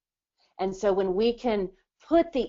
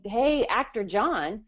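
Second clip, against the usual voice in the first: sales pitch to client; 4 semitones higher than usual. Retold or imitated. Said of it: "and you can say".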